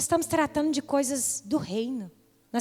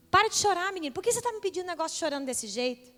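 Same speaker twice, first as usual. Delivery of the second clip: mock scolding; 5 semitones higher, 4 dB quieter, faster than usual. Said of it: "Não fala assim".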